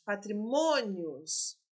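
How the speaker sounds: patrimônios stretched out syllable by syllable; slow, deliberate repeat. Shown as a demonstration. Teacher stressing patrimônios for exam students, slowly. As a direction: lay out patrimônios slowly so students hear each part. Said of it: "teacher repeats the word for students".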